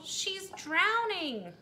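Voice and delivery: high, loud, slow anguished wail; panicked cry. Acted. Missus Hipple screaming for help, slow panicked wail. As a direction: wail it in terror. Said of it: "cried Missus Hipple".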